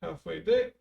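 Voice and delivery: counting squats. Real, not acted. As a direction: call the reps mid-exercise. Counting reps while doing squats.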